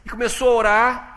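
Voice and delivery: loud, high, impassioned preaching of Hannah's story; full-force preaching. Acted. Pastor preaching Hannah's story to the church, loud and fervent. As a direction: preach it out to the congregation.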